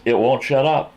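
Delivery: mildly frantic retold complaint; retold exasperation. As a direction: act out a friend at his wits' end. Retold exasperated friend about screeching rabbit.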